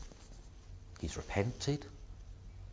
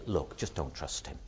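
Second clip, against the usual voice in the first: blunt common sense; 9 semitones lower, 9 dB quieter than usual. Acted. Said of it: "common sense would say".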